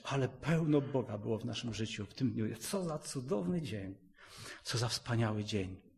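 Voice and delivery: soft, grateful bedtime murmur; contented murmur. Retold or imitated. Believer to spouse at bedtime, softly grateful. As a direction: say it gently, winding down. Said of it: "kładziesz się spać i mówisz".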